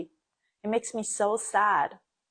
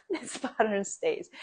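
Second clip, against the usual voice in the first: softer, chuckling through "This pattern stays"; laughing repeat; 3 semitones higher, 3 dB quieter than usual. Shown as a demonstration. Echoing her own point to viewers, laughing softly.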